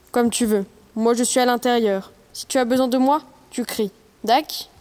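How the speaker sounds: put-on girl dropping into her dad's voice; deep father voice. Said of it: "prend sa voix la plus grave pour imiter celle de son père".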